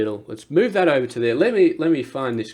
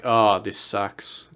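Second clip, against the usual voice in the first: slow, low and softer, dragging the oh; mopey groan; 4 semitones lower, 4 dB quieter, much slower than usual. Retold or imitated. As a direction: sigh it out like life is pointless. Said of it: "You're just like".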